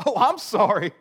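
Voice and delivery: mock-apologetic sarcasm; sarcastic disciple mocks the advice to switch sides. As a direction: roll your eyes through it, dripping irony. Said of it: "sarcastic disciple".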